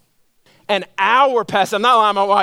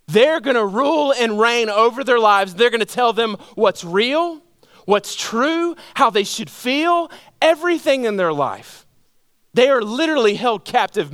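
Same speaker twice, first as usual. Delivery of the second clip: higher-pitched, insistent sermon delivery; impassioned preaching; 4 semitones higher than usual. Real, not acted. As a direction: preach it, driving each phrase home. Preacher driving home his point.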